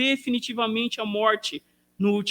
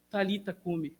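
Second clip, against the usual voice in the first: soft, lower call to rise; hushed calling; 3 semitones lower, 9 dB quieter than usual. Acted. Inviting the congregation to hear Jesus's call tonight, hushed. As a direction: drop to a gentle hush.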